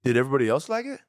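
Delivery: high, bright mock praise; lightly mock cheerful friend. Imitating friend on phone.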